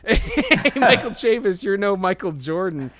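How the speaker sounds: shouted impression of a heckler; heckling yell. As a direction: bellow it at the left fielder like a drunk fan. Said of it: "And then immediately he's like".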